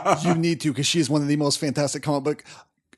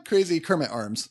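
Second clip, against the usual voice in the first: ordinary talk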